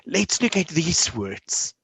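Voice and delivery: slow, gentle praise; encouraging teacher voice. Shown as a demonstration. Teacher praising a student after reading, slow and encouraging. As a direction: praise a child kindly. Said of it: "I will say to them at the end".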